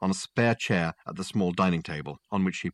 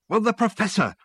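impatient, higher and louder; 13 semitones higher, 4 dB louder than usual. Acted. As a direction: snap it out, fed up. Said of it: "said Dirk impatiently".

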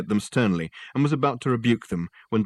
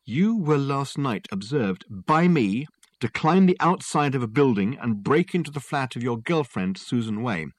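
Dirk accusing; 4 semitones higher than usual. Acted. Detective confronting client with what he saw, deliberate. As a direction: spell out the charge, higher at the start.

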